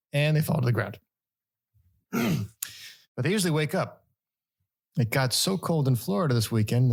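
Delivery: steady news-article reading. Acted. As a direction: read it like a newscaster.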